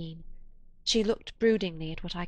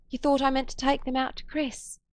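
higher, surprised; startled question; 7 semitones higher than usual. A narrator's reading. Woman startled at narrator's misunderstanding, rising high. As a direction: blurt it in surprise.

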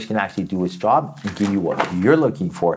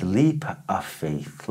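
slow soft reading; 3 semitones lower, 4 dB quieter, much slower than usual. Shown as a demonstration. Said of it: "it says".

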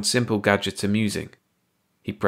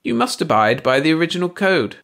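high alien voice; 8 semitones higher, 4 dB louder than usual. A narrator's reading. Baldy explains.

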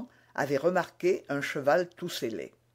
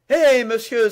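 loud, high, furious call across the street; sharp shouted challenge; angry cry; 7 semitones higher, 10 dB louder than usual. A narrator's reading. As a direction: hurl it at him in a rage. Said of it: "s'écria-t-il".

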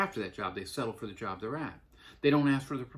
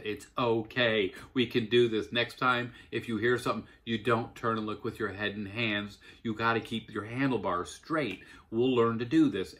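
reassuring. Retold or imitated. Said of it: "put him back on the bike and said".

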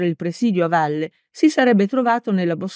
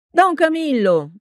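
shouted name; 9 semitones higher than usual. A narrator's reading. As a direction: yell his name across the field. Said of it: "urlò Peppone".

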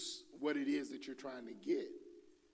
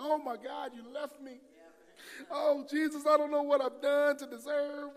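high, loud hammed-up lament; mock wailing; 12 semitones higher, 7 dB louder than usual. Believer who left the Spirit behind, mock panicked wailing. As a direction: cry out like a lost child, overplayed.

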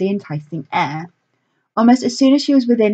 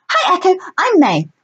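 pixie; 11 semitones higher, 3 dB louder than usual. A narrator's reading. Pixie greets Echo.

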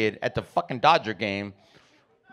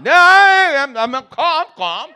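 agitated stuttering dad; 12 semitones higher, 8 dB louder, slower than usual. Retold or imitated. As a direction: stammer a frantic denial, then come down. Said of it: "Dad, you're stuttering".

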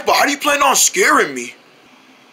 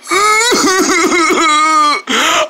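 long stuttering comic wail; drawn-out boo-hoo wail; wailing sob; 3 semitones higher than usual. Acted. Wailing as friend leaves.

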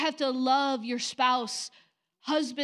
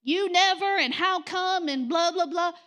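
higher, louder nagging whine; mock nagging wife; 5 semitones higher, 4 dB louder than usual. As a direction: play a nagging wife, high and whiny. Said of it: "nagging all the time".

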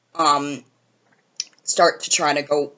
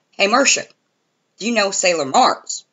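higher, louder mock-friendly Justin voice; imitating Justin; 6 semitones higher, 4 dB louder than usual. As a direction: play him eager and clueless. Quoting Justin's odd question.

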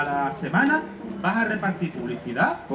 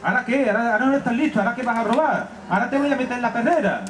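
scolding butcher; 4 semitones higher than usual. Acted. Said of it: "Tomás le dice".

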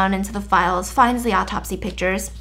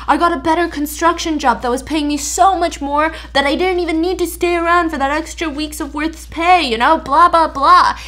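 put-on nerdy boy protesting; 5 semitones higher than usual. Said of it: "the whole time he's like".

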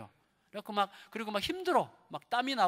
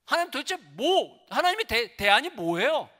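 high, loud protest to God; acted, agitated tirade; angry Elijah; 4 semitones higher, 4 dB louder than usual. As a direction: vent bitter disappointment at God. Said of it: "막 화를 내는 거예요".

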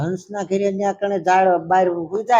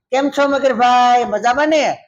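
chatty turtle; 5 semitones higher than usual. Acted. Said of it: "કોઈને બોલવાનો વારો જ ન આવવા દે".

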